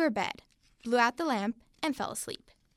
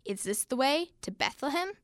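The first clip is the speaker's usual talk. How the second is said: royal voice; 4 dB quieter than usual. Acted. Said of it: "said one of the kings in a royal voice".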